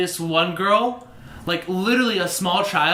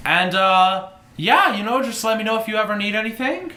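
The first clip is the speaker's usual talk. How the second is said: lightly voiced, chatty innkeeper; a hint of a helpful host, hesitant and casual. Innkeeper showing guests the facilities, lightly voiced innkeeper. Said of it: "that was the wrong voice for the innkeeper".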